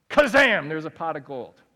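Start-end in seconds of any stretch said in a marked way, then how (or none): 0.1-0.7 1 magic kazam. Pretend. Magic miracle sound effect.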